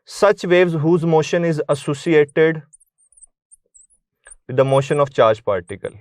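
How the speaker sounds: reading a definition out slowly for notes; slow dictation. Shown as a demonstration. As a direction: dictate the line slowly, evenly, for students to write. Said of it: "क्या होती हैं?". (धीमी गति से परिभाषा लिखवाना)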